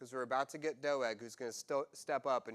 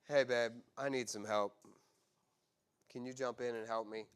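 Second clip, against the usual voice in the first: calm request; 4 semitones lower than usual. Retold or imitated. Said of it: "much more effective means of communication".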